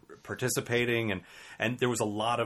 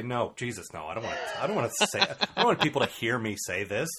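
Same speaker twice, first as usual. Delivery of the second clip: laughing refusal. Retold or imitated. Imitating friend's refusal.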